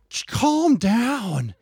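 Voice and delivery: high-pitched, drawn-out pleading; exasperated parent. Retold or imitated. Parent re-enacts telling yelling child to calm down, exasperated.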